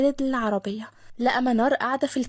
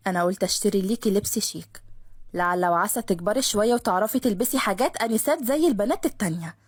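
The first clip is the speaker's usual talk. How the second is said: lower, mildly condescending cousin; teasing her as a child, lower; Khaled voiced; 4 semitones lower than usual. (خالد بصوت أوطى متعالي شوية)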